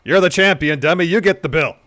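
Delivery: bully the cashier as the cocky champ; L A Knight. Acted. Ordering at Del Taco, loud brash L A Knight impression. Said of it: "L A Knight's gonna take the lead".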